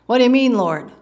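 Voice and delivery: high, loud burst, dropping on "Lord"; startled Peter. Acted. Peter jolted by the Lord's word, startled question. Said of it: "had to revolutionize and wake him up".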